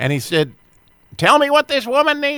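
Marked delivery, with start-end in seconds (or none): 1.2-2.4 imitated strong Texas accent, higher. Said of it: "speaking in a very strong Texas accent".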